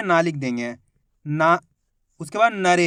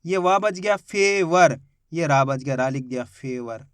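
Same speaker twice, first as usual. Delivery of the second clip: slow spelling-out; 5 semitones lower, slower than usual. Shown as a demonstration. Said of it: "बचा कौन सा अक्षर".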